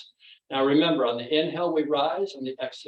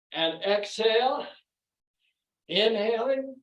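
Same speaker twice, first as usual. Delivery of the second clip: breathing cues; 3 semitones higher than usual. Real, not acted. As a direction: lead the breath, pitch climbing on the inhale. Leads breathing in exercise.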